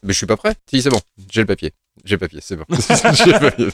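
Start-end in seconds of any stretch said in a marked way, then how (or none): 2.7-3.7 laughing. Real, not acted. Laughing while repeating himself.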